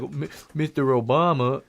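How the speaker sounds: stammering, simple-minded greeting; Forrest Gump. Acted. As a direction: stumble over the first sound like a simpleton. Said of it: "Forrest is like".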